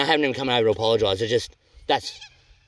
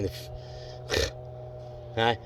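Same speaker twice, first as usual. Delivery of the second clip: muttering under breath; 10 dB quieter, much slower than usual. Real, not acted. Frustrated mutter after boat wake.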